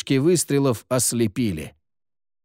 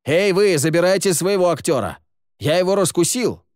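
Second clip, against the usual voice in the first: loud and higher, calling up out of the pit; raised voice; 6 semitones higher, 3 dB louder than usual. A narrator's reading. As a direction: shout up to the guards, triumphant. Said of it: "повысил голос". (громко, кричит наверх охранникам)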